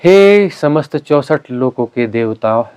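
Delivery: slow ceremonial call; solemn invocation. Real, not acted. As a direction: call upon the deities with drawn-out words. Leads a group invocation.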